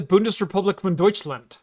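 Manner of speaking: Bundesrepublik von Deutschland in German sounds; German pronunciation. Shown as a demonstration. Host showing what he doesn't call Germany, German pronunciation. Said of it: "I don't say the".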